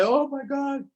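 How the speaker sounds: high-pitched mock lament; retold crying dismay. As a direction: cry out in dismay, lightly acted. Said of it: "they started to, to cry".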